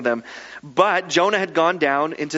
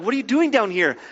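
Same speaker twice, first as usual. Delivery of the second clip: higher-pitched mock scolding; lightly acted captain's telling-off; mild berating; 4 semitones higher than usual. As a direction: scold a sleeper a little. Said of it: "the captain kind of berates Jonah a little bit".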